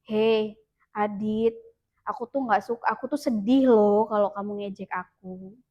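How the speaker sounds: gentle, quiet telling a friend you're hurt; talking it over kindly. Retold or imitated. Pupil telling teasing friend Adit calmly, gently and quietly. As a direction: say it softly and kindly, not accusing. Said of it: "Ajak bicara baik-baik".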